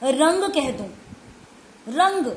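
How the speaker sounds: रंग with a clear nasal ng before ग; nasal ng in rang. Shown as a demonstration. Teacher to pupil, demonstrating रंग with the nasal sound. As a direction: say रंग, not रग. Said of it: "रग को अगर मैं रंग कह दूं".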